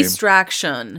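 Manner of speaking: "distraction" stretched out slowly, low; suggestive emphasis. Pretend. Podcaster joking to co-host about what she needs, suggestive emphasis. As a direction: draw out "distraction" as innuendo.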